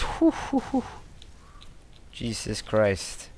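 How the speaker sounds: ordinary delivery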